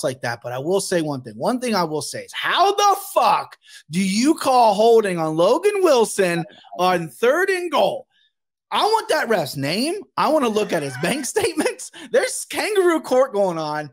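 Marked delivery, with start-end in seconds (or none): 2.3-13.9 indignant rant. Real, not acted. Fan ranting about the referee.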